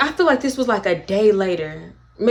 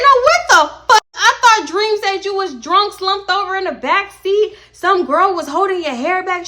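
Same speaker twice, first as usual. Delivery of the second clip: high, loud, near-tearful outburst; upset yell; 9 semitones higher, 4 dB louder than usual. Retold or imitated. Worried friend yelling down the phone, high and loud. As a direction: yell it, upset and close to crying. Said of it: "I said".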